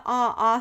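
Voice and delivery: short vowel "ah", held on its own; teacher sounding out "ah"; letter sound demo. Shown as a demonstration. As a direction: say "ah" as an isolated vowel sound, twice.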